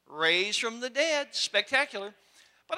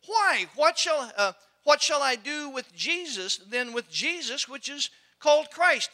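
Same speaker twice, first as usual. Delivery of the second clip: Pilate. Acted. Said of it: "then Pilate said unto them".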